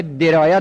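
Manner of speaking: درایه with a short e after the opening d; kasra on the first letter. Shown as a demonstration. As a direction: say درایه as "deraya", first vowel e. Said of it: "دالش کسره داره".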